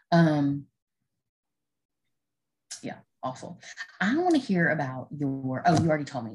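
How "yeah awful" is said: whispered. Real, not acted. Trailing reply after throat clear.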